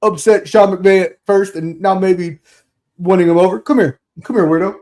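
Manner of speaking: lightly voiced gruff coach; a hint of a gruff coach calling a player over; Hey Weirdo bit. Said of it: "the Hey Weirdo".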